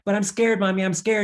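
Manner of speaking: put-on high, loud, pleading little child; scared toddler. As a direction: cry out to mommy like a frightened small child. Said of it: "the baby pleads again".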